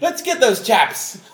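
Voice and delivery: high, loud, slow mock indignation; comically genteel outrage; hammed-up polite swearer. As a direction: exclaim like a prim footballer trying to be aggressive. Mild self mimicked among aggressive players.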